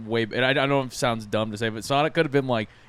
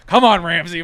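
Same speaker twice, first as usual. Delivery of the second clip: mom; 6 semitones higher, 10 dB louder than usual. Retold or imitated. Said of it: "She's like".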